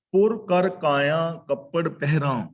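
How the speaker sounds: slow, measured verse reading; deliberate sacred verse; scripture recitation. Real, not acted. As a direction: recite the line slowly.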